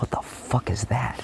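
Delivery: hushed, slow, startled whisper; alarmed whisper. Retold or imitated. Sensing the unseen attacker close in, an alarmed whisper. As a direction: whisper it as something creeps near. Sensing an approaching invisible force.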